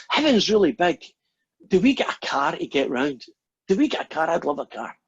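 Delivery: put-on like a kid who can't sit still; mock-giddy plea for a car; overexcited. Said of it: "can hardly control himself".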